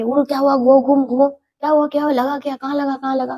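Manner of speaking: a father alarmed, urging his daughter to turn round; worried father calling. Retold or imitated. (घबराए पापा की ऊँची आवाज़)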